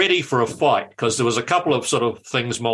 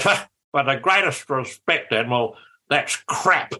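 Muldoon impression. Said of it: "his voice just went through it like a chainsaw".

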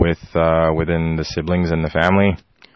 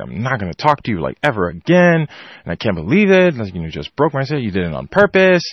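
higher, mock-sulky accusations; pouting rant; 4 semitones higher than usual. Sulking child to brother over broken headset, pouting rant. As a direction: re-enact a child ranting through a pout. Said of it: "I'm pouting".

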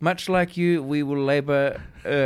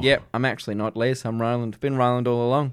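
light put-on lisp; 2 semitones lower than usual. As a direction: speak with a little lisp. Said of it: "I'm just putting on a little lisp".

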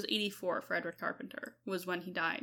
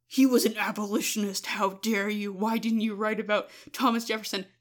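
mock outrage; 6 dB louder than usual. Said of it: "every single reply was like".

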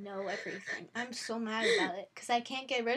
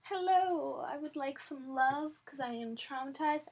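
voiced cat; 2 semitones higher than usual. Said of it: "'cause he's like".

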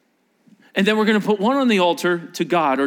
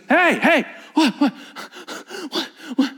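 taunting; 9 semitones higher than usual. Acted. Elijah taunting prophets.

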